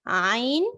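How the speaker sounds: Arabic letter عین said from the throat; عین spoken as a throat sound; letter demo. Shown as a demonstration. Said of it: "یہاں سے ہا کی آواز آئے گی".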